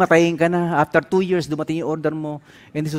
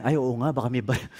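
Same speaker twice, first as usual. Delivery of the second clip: quick, softer, hushed worry; quick, softer worried agreement; sudden worried realization; 5 semitones lower, 6 dB quieter, faster than usual. Retold or imitated. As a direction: quickly take back the bravado. His quick scared reply.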